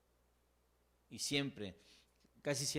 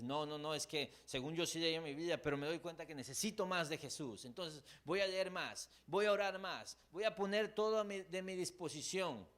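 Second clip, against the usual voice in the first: rising resolve; 6 semitones higher than usual. Retold or imitated. Voices resolved believer building up.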